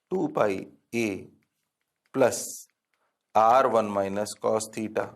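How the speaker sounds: drawn-out dictation, every word spaced; slow dictation. Shown as a demonstration. Teacher to class, slow dictation pace. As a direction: spell out each term slowly for notes. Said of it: "dictating the step slowly".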